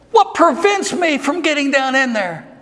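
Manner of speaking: voiced eunuch, rising into a high shout; preacher voicing the eunuch, crying out his question; eunuch's pleading cry. Preacher voicing the eunuch to his congregation, rising to a pleading shout. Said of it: "And the eunuch says".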